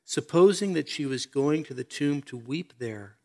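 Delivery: measured, solemn Bible reading; scripture reading. Acted. Preacher reads the Lazarus story to the congregation, solemn scripture reading. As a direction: read the passage out soberly to listeners.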